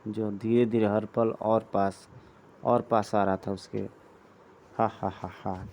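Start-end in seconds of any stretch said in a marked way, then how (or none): 4.8-5.7 low, deliberate "ha ha ha"; lightly acted villain laugh; villain's laugh. Villain laugh in re-read passage.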